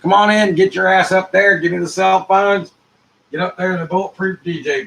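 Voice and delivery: loud command. Acted. Ordering arriving guest around.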